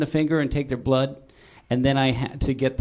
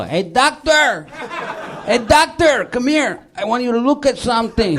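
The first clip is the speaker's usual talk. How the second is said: loud high mocking call of "doctor"; teasing call; 9 semitones higher, 5 dB louder than usual. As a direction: heckle him across the yard. Workers teasing him in lab coat.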